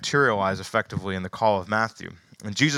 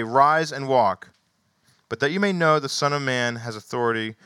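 raised, lively Bible reading; animated scripture reading; 2 semitones higher than usual. Acted. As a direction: read the paralytic story to them. Reads healing passage aloud.

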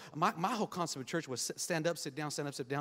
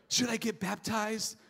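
slow, drawn-out mock prayer; mock pleading prayer; 4 semitones higher, much slower than usual. Mocking believers who stall on baptism, slow mock prayer. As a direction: ham up a pious plea to stall.

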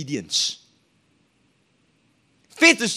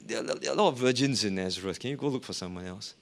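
mock refusing Mary; 4 semitones lower, 3 dB quieter than usual. Preacher joking about Mary refusing, casual brush-off. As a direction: play Mary shrugging it off. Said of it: "What if Mary said".

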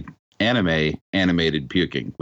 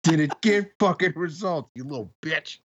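laughing mock speaker; 8 semitones higher than usual. Repeating the speaker bit, laughing.

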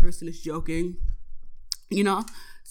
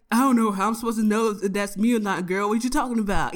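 playful mock-protest, a little raised; joking around; 2 semitones higher than usual. Mechanic kidding with a caller he can't spot, joking. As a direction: tease her like you're kidding. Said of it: "like, joking around".

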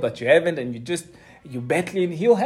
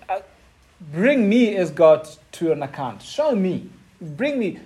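God's challenge; 3 semitones higher, 3 dB louder than usual. Acted. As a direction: thunder at him, building to the final question. God challenging Job, rising.

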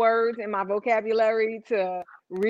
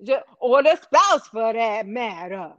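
mock radio cadence; 3 semitones lower, 3 dB louder than usual. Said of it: "I'm here for the cadence".

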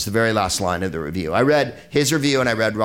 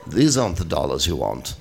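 lower, flat stormtrooper line; 6 semitones lower than usual. Pretend. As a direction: deliver it like a wooden stormtrooper. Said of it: "Stormtrooper line readings".

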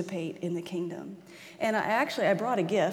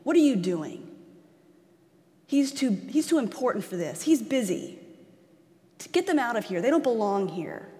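scolding, with sharp louder bursts; shaming rebuke; 3 dB louder than usual. Acted. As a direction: rebuke them as if shooing them off. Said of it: "When I hear rebuke, I hear, um, shame".

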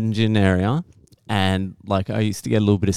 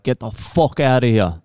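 mock Irish brush-off; Irish accent. Storyteller mimics an Irish guy at the bar, Irish accent. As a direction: aggressive Irishman's telling-off, lightly imitated. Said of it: "an Irish guy, he's like".

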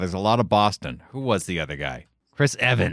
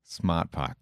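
put-on Boston accent; 5 semitones lower, 7 dB quieter than usual. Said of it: "familiar with the Boston accent".

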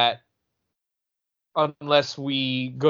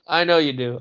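laughing. Real, not acted. Laughing reply to teasing.

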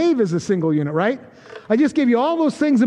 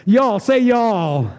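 Southern y'all; much slower than usual. Shown as a demonstration. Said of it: "if you spoke Southern".

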